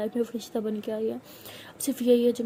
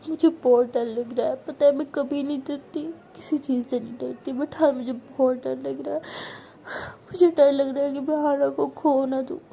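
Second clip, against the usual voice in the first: frightened tearful begging. Acted. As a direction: beg as if your whole life depends on it. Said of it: "तो उसे बोल के बहुत ज़्यादा रोती है".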